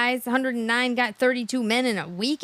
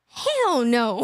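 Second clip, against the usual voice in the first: dad's laughing refusal; 3 semitones lower than usual. Retold or imitated. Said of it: "He's like".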